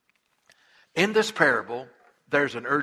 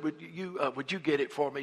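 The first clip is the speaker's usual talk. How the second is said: much softer, timid request; sheepish ask; 6 dB quieter than usual. Acted. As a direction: ask meekly at the door.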